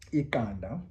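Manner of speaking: Iqanda with a sharp q click; isiXhosa click. Shown as a demonstration. Teacher repeating Iqanda with a clear click. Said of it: "how we pronounce the Q".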